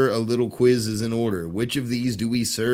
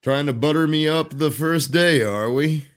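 a hint of kindly retiring conductor; lightly voiced train conductor. Conductor announcing his last day, lightly voiced role. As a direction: lightly play a veteran conductor saying farewell.

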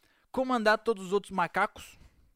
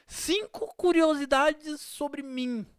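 mocking tone; 5 semitones higher, much slower than usual. Mocking Instagram posts.

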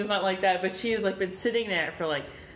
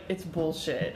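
blunt, firm dismissal; forceful; 3 semitones lower, 3 dB quieter, slower than usual. Acted. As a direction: say it flat out, forcefully. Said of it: "she said it pretty forcefully".

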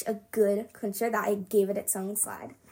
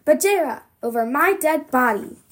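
louder still, Bajera pushed high and loud; scream; 4 semitones higher, 6 dB louder than usual. Acted. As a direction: scream it through the door. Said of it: "scream even louder".

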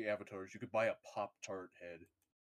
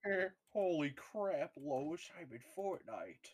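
slow, drawn-out cartoon dad impersonation; Peter Griffin; 4 semitones higher, slower than usual. Friend takes a dare to do the impersonation, slow cartoon voice. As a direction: stretch it out like a goofy cartoon father. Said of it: "Peter Griffin impersonation".

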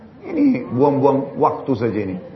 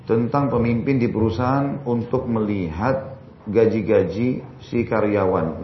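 slow, careful reread of "tentang pemimpin di perusahaan"; slowly rereading the listener's question aloud; 5 semitones lower, slower than usual. Shown as a demonstration. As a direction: spell the question out again slowly, word by word.

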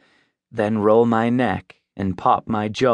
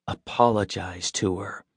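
quiet; 2 semitones lower, 6 dB quieter than usual. A narrator's reading. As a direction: keep it hushed so she can't hear. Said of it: "I say quietly".

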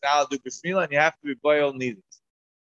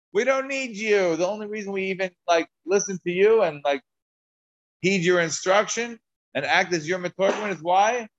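a high-pitched scoffing wife; taunting wife; 5 semitones higher than usual. Retold or imitated. Translator's wife belittling Rabbi Avo, mock scornful. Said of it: "the Metorgim's wife said".

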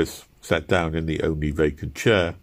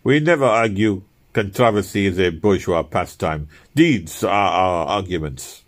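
firm. Retold or imitated. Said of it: "saying firmly".

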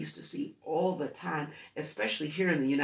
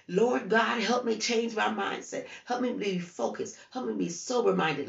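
raised, higher pleading prayer to God; fervent plea; earnest prayer; 6 semitones higher, 3 dB louder than usual. Pretend. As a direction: cry out to the Lord for help. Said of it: "Ask God to say".

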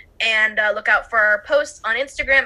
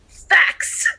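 mock-nerdy; 7 semitones higher, 3 dB louder than usual. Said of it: "put my glasses on for that".

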